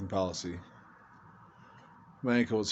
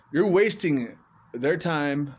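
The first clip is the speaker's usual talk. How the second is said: slow, loud and indignant; slow angry emphasis; 5 semitones higher, 6 dB louder, much slower than usual. Real, not acted. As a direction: spell it out slowly, fed up. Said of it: "so I was just pissed".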